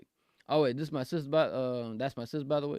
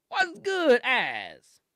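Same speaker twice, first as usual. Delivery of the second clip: high greeting; 9 semitones higher, 5 dB louder, much slower than usual. Pretend. Greeting caller in a put-on voice.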